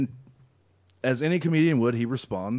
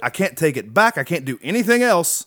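unrepentant rant; 5 semitones higher, 4 dB louder than usual. Retold or imitated. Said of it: "He's like".

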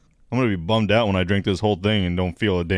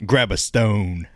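mock slogan read; much slower than usual. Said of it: "The only thing it says on it is".

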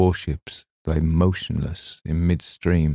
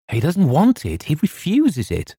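angrily; 10 semitones higher than usual. A narrator's reading. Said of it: "I answered angrily".

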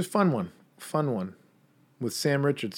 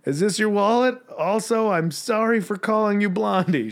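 sheepish apology; 10 semitones higher, 4 dB louder than usual. Retold or imitated. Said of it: "I'm like".

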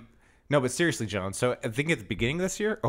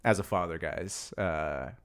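self-important dad; 5 semitones lower, 5 dB quieter than usual. Retold or imitated. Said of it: "I go".

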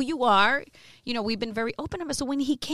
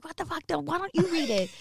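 higher-pitched mock indignation; retold angry outburst; 7 semitones higher than usual. Host retelling cursing at her co-host on air, mock anger. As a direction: re-enact an exasperated on-air challenge. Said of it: "I got so angry at him".

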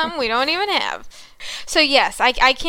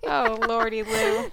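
Southern exclamation; 8 semitones higher, slower than usual. Pretend. Mock exclamation.

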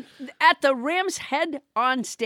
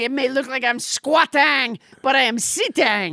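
put-on French accent. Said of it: "French Trump".

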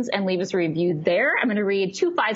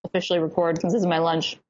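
chewing while talking; 3 semitones lower, faster than usual. Real, not acted. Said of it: "I'm trying to eat real fast".

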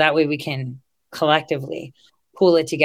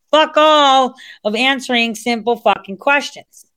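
exasperated rant; 8 semitones higher, 6 dB louder than usual. Real, not acted. Ranting at unanswering congressmen.

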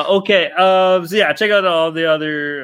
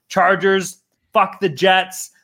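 drawn-out fuck the Jets; 3 semitones higher, much slower than usual. Real, not acted. Host taunting rival team fans, slow mock jeer. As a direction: spit it out slowly, taunting. Sports trash talk, drawn out.

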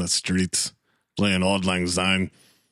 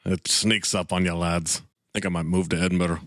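put-on Scottish accent; 3 semitones lower than usual. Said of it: "see if it turns Australian".

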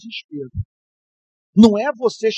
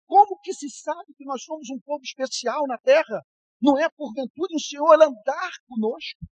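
a lightly voiced Moses pleading, pitched up; Moses pleading to God; 5 semitones higher than usual. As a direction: plead with God, rising and urgent. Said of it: "disse o seguinte para Deus". (Moisés suplicando a Deus, voz mais aguda e urgente)

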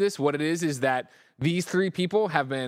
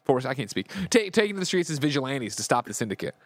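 horror trailer voice. Acted. Reading wiki story dramatically.

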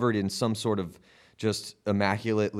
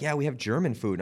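higher-pitched mock Swiss accent; 5 semitones higher than usual. Bartender telling a customer about the menu, retold Swiss accent. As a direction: imitate a Swiss accent, lightly. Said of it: "heavily accented English".

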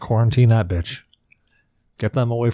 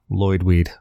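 deadpan; 4 semitones lower than usual. Pretend. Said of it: "you deadpan it".

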